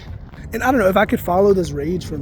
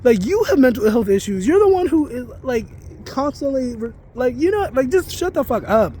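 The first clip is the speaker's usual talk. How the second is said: angry retort; 5 semitones higher than usual. Retold or imitated. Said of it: "And I'm like".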